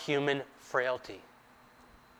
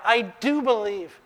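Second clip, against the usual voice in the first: higher and louder, urgent outburst; crying out; 9 semitones higher, 4 dB louder than usual. Acted. Father crying out to Jesus, urgent and raised. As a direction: blurt it out at once. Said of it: "he cries out".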